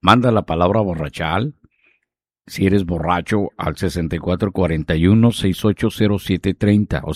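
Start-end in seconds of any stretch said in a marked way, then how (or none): 0.0-1.5 said calmly. Shown as a demonstration. DJ repeating the contest keyword calmly for listeners. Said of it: "Despacio lo voy a decir".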